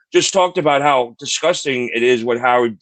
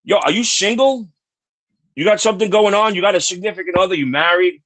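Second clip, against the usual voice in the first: cocky playful pitch; 5 semitones higher than usual. Retold or imitated. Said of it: "I was like".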